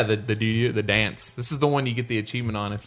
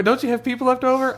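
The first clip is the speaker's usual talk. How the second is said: whiny player voice; 12 semitones higher than usual. Retold or imitated. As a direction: pester like a left-out raider. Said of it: "it'd be like".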